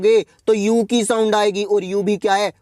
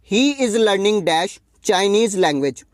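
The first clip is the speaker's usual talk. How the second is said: very slow, word by word; slow read-out; much slower than usual. Shown as a demonstration. Teacher reading exercise sentence to class, very slow. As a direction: read the question out slowly for students to follow.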